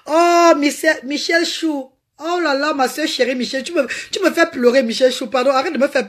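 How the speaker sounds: high, gushing cry of the viewer's name; high-pitched delighted greeting to a fan. Real, not acted. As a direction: gush over a dear friend. Gushing over a viewer's comment.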